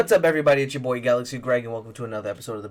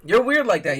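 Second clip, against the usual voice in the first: emphatic tease; 9 semitones higher, 7 dB louder than usual. Real, not acted. Teasing the cohost.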